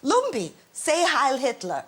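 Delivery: high, coaxing mother impression; eccentric mother. Mother prompting her dog at a party, hammed-up command. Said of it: "she'd go at the party".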